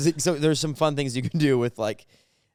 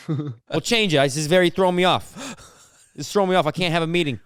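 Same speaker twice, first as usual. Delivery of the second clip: exasperated boss; 4 semitones higher, 3 dB louder than usual. Acted. Boss on zoom.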